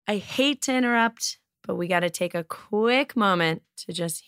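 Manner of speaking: upbeat host ad read; podcast sponsor read. Acted. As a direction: sell the product, chatty and bright.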